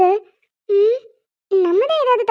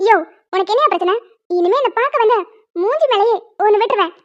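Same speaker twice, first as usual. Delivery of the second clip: mock threat. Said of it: "இப்ப பாருங்க என் ஆட்டத்தை".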